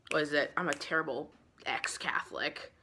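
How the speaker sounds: under the breath, unvoiced; a muttered confession to herself; whispered aside. Real, not acted. Forgetting the wafer's name, whispered to herself.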